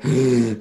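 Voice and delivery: mimed heaving breath; heaving gasp. Acted. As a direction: suck in a huge gasp of air. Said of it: "like, huge heaving breaths".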